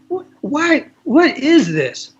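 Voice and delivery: put-on high, incredulous old lady, slow on "what is this"; imitating Iris. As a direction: play Iris baffled by the question, pitched well up. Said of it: "She goes".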